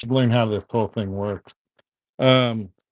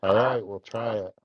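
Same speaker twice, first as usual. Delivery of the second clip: crackly cordless phone. Real, not acted. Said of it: "now you're staticky".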